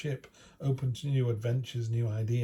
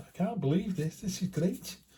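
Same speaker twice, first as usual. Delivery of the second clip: put-on, pitched-up Scouse Liverpool accent; 7 semitones higher than usual. Retelling what two lads on a cycling holiday said, liverpool accent impression. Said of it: "my Liverpool impersonation".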